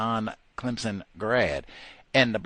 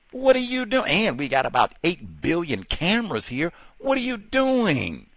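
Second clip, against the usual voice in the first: high, loud exasperated cry; indignant outcry; 7 semitones higher, 4 dB louder than usual. Real, not acted. Demanding of the officer, high loud disbelief.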